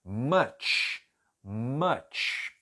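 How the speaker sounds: "much" twice, apart, with a clear "tch" ending; careful pronunciation. Shown as a demonstration. Teacher demonstrates hidden T in "much", deliberately. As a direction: repeat "much", sounding the T before the hiss. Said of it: "tem um som de T".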